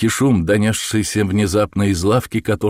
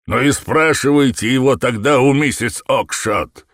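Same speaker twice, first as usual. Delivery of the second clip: angry retort; 5 semitones higher, 4 dB louder than usual. A narrator's reading. Shopkeeper keeps shouting.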